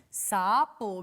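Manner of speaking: "sapo" with lengthened syllables, joined; drawn-out word. Shown as a demonstration. Teacher showing how it is said, "sapo" drawn out. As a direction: stretch "sapo" gently. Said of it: "miren cómo se dice".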